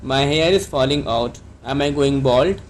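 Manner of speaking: slow, clear model sentence for learners; careful classroom dictation pace; slow teaching model. Shown as a demonstration. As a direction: say it slowly so students can repeat. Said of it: "तो आप इसको कैसे कहेंगे?".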